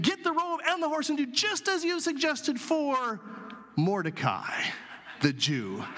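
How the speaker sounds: a hint of a regal king sending Haman off; royal command. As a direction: give the order like a pleased king savoring the irony. King orders Haman to honor Mordecai.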